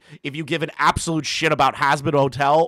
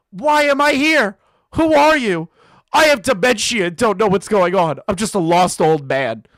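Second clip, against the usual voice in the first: put-on confused old man voice, a touch higher and louder; lost old man; 3 semitones higher, 5 dB louder than usual. Reading his own troll comment aloud, confused old man. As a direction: play a bewildered old man. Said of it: "this stupid little comment".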